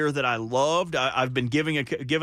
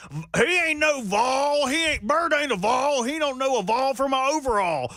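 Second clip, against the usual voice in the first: indignant fan voice, pitched way up; doubting local fans; 7 semitones higher than usual. Acted. Fan imitates locals doubting his loyalty, high indignant holler. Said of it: "a lot of people might be like".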